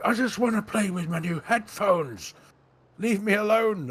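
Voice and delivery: high, loud mock tantrum; whining little boy. Retelling the long phone call, mock childish whine. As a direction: wail it like a thwarted child, hammed up. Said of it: "all excited like a little boy".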